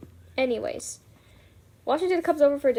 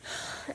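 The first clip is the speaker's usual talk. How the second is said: soft exasperated sigh; quiet huff of breath; acted sigh; 12 dB quieter than usual. Meg, overruled at Washington's table, acted sigh. Meg's reaction to being overruled.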